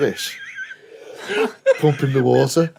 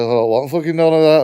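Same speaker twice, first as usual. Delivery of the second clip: indignant retort; 5 semitones higher, 6 dB louder than usual. Retold or imitated. Arguing back at his girlfriend.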